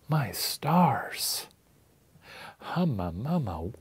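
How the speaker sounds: whispered swoon; hammed-up, hushed admiration; smitten woman. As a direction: whisper it as if swept off your feet. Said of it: "putting myself into her mind".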